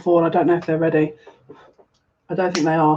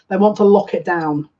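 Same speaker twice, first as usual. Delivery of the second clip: a touch more emphatic, "lock" leaned on with a falling end; odd cheesy phrasing; 3 dB louder than usual. Real, not acted. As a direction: say it in a slightly put-on, corny way. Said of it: "'cause I never speak like this".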